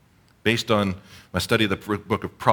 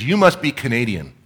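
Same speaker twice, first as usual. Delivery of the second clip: amused driver; 4 semitones higher, 7 dB louder than usual. Retold or imitated. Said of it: "He says".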